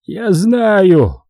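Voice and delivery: pitched high and certain; hopeless certainty. A narrator's reading. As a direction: insist on it with no hope left. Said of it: "с безнадёжной уверенностью в голосе".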